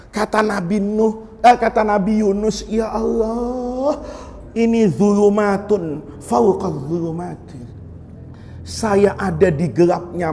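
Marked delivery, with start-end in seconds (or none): 2.7-7.6 slow mournful prayer. Retold or imitated. Yunus prays in the fish.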